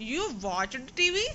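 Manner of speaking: "You watched टीवी" slowly, rising on "टीवी"; questioning tune. Acted. Teacher questions pupil about homework excuse, questioning, "टीवी" rising. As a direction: ask "You watched टीवी" as a slow question, lifting the last word. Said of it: "यानी question किया जा रहा है".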